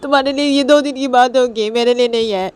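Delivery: high, loud tearful outburst; tearful shouting. Acted. Nisha cries at Manisha about being left, tearful shout. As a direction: cry out loudly, high and upset. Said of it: "बहुत ज़ोर से चिल्ला देती है".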